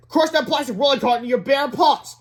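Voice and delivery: high, forceful command; stern. A narrator's reading. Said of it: "said Melvin sternly".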